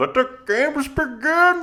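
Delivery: weird, very high-pitched villain voice. Discussing villains in The Dark Knight Rises: Bane's weird voice. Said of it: "Bane with the weird voice".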